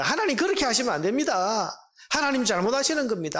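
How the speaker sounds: Habakkuk. Acted. Prophet telling God he is wrong, indignant protest. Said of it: "하나님 앞에 불평하고 항의하면서".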